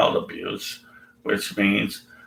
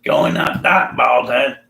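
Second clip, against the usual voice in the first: 1 kids' mocking taunt; 5 semitones higher, 4 dB louder than usual. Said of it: "mocked him, saying".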